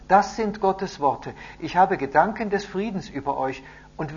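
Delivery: high, loud, declaiming; solemn proclamation. A narrator's reading. Messenger reads God's promise to the captives, loudly proclaiming. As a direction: proclaim holy words to a crowd.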